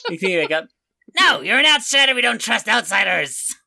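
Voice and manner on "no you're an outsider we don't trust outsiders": stern guard. Acted. Guard refuses.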